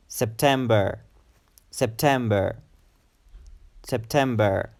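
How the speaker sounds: September ending in a short er; short final er. Shown as a demonstration. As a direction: keep the last syllable of "September" short. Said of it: "er sound at the end must be short".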